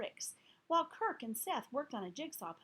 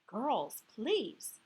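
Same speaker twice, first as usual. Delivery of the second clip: firm; 5 dB louder than usual. Acted. Teacher breaks up fight.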